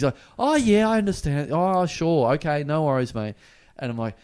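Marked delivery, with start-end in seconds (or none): 0.4-3.4 humouring someone unstable. Retold or imitated. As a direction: imitate wary, over-agreeable placating. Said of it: "just keep saying yes to this guy".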